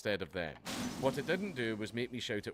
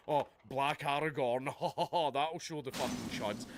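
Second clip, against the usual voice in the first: mocking smug laugh; 3 semitones higher than usual. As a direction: sneer like a smug studio exec laughing. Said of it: "like being".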